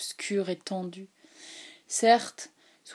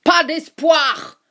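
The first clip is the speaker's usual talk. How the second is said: high, loud ringing cry like a bugle; a piercing cry of despair; sudden cry; 7 semitones higher, 10 dB louder, much slower than usual. A narrator's reading. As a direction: burst out with it. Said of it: "inopinément haute et forte ... comme un cri".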